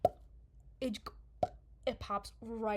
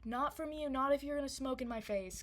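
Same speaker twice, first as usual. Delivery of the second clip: retold refusal; 6 semitones higher, 3 dB louder than usual. Acted refusal to smoking helper.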